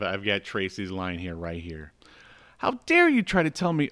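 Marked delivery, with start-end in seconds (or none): 2.6-3.9 higher, hammed-up phone rant; mock yelling. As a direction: act out the angry detective on the phone. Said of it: "they are yelling at each other".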